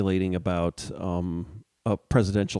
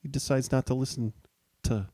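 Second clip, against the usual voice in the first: higher, softer mock Alito musing; 3 semitones higher, 3 dB quieter than usual. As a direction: lightly imitate a judge musing aloud, higher and hushed. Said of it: "who said".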